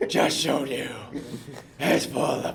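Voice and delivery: Batman voice. Retold or imitated. Imitating Batman voice mask line.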